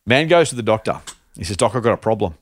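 setting up a groaner; telling a dad joke. Acted. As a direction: deliver a cheesy punchline. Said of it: "a joke, which I'm gonna share".

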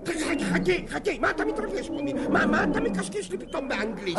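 high, loud, frantic calling; panicked alarm. Acted. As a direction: stop him before he walks away. Official panics as player leaves. (קריאה מבוהלת וגבוהה)

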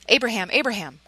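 loud, high urgent call; a voice calling down from heaven to stop him. A narrator's reading. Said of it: "called a voice from heaven".

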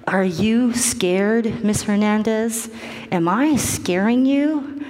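slow, pointed questions; pointed questioning. Retold or imitated. Doctor confronting a crying wife, pointed questioning. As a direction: press each question deliberately, voice lifting at the end.

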